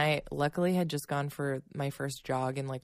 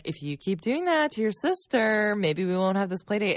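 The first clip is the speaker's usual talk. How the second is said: warning threat; 6 semitones higher, 5 dB louder than usual. Retold or imitated. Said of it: "I was like".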